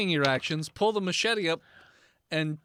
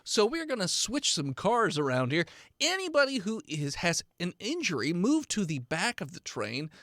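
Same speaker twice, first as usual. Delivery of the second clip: train conductor announcement. Acted. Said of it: "Comes over the speaker".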